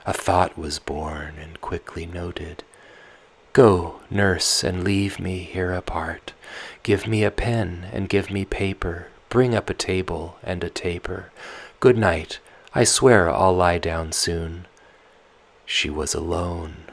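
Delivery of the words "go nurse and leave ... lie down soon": put-on loud, restless girl pleading with her nurse; Tatiana, sleepless and pleading; young Tatiana.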